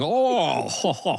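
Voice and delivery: high, slow hammed-up "ho, ho, ho"; playful Santa-like chuckle; jolly mock laugh voice. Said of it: "and you're going".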